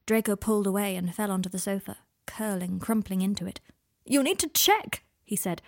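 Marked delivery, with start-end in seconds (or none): 4.0-5.0 higher, insistent pleading; desperate plea. Acted. Draco begging Harry to test him, desperate. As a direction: beg him to check, voice climbing.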